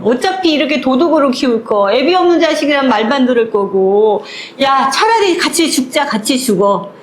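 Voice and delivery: mother's tearful scolding rant; furious mother. Retold or imitated. Mother scolding her thieving kids, furious rant. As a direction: rage at the kids, half crying. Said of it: "엄마가 더 무서워".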